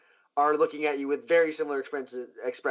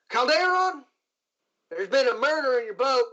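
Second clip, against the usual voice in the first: lightly higher, brisk lawwoman voice; a hint of a no-nonsense marshal; Marshal Kane; 9 semitones higher, 3 dB louder than usual. Marshal telling the captain of a murder, a hint of lawwoman voice.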